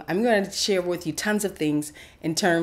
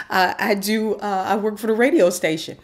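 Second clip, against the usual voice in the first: louder, higher repeated answer; exasperated; 5 semitones higher, 7 dB louder than usual. Retold or imitated. She repeats her job to the mentor, exasperated. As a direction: insist on it, exasperated.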